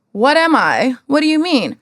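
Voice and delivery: high, loud and stunned; retold outraged question; outraged disbelief. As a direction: demand an answer in shock. Reaction to the brand complaint.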